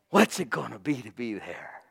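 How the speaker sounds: wondering aloud, half to yourself; awed wonder. Retold or imitated. Believer dreaming of heaven, hushed awe. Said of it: "You'll go, "Wow".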